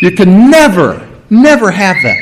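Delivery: both NEVERs stressed and falling; emotional emphasis. Acted. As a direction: lay down an absolute ban on NEVER. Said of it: "a lot of emotion put behind that".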